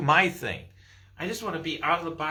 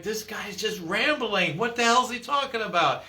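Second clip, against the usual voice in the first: exasperated listener; 4 semitones higher than usual. Retold or imitated. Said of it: "be like".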